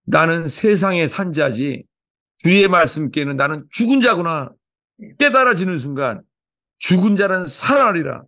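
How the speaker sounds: preacher praying with rising fervour; fervent prayer. Real, not acted. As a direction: pray it out over the congregation. Pastor prays aloud before congregation.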